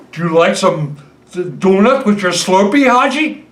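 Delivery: put-on husband's corny Indian accent gag, lightly done; mock Indian accent. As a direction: slip into a hammed-up Indian accent for the joke. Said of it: "uh, Indian accent?".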